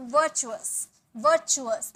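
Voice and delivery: virtuous as "vuh-chu-us", no r; silent r, chu. Shown as a demonstration. Teacher models the word for learners, r silent. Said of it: "आर का sound यहाँ भी नहीं आएगा".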